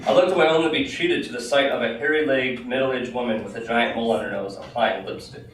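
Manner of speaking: lively read-aloud storytelling; story narration. Acted. Author reads a crowded-train tale to an audience, animated narration. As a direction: read it out with crisp, animated phrasing.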